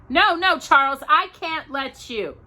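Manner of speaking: high, loud frightened plea; pleading. A narrator's reading. Ma begs Pa not to go down the well, high frightened plea. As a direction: beg him not to go.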